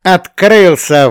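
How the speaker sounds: loud, high, slow triumphant cry; militant exclamation. A narrator's reading. Shura answers Belsky, a loud, slow and triumphant cry. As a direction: shout it like a battle cry of victory. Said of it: "воинственно воскликнул".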